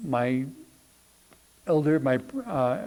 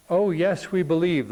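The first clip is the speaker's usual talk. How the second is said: crowd's shout, only slightly raised in pitch; mild mock shout; 3 semitones higher than usual. Crowd answers the tightrope walker, mild retold shout. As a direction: retell a crowd cheering assent, without really shouting. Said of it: "the whole crowd shouted in one voice".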